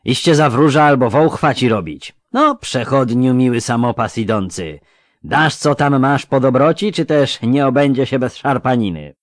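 lisping thug. A narrator's reading. Robber demanding the traveller's belongings, lisping and loud. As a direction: threaten with mock politeness, loud and lisping. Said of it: "seplenił lekko".

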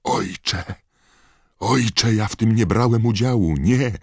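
very high, loud, panicked cries; frantic, hysterical begging; desperate pleading. A narrator's reading. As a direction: scream for father as if being dragged away. Condemned son begs his father.

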